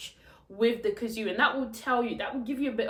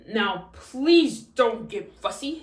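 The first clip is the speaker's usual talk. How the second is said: dad voice; 5 dB louder, slower than usual. Shown as a demonstration. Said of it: "So I would say".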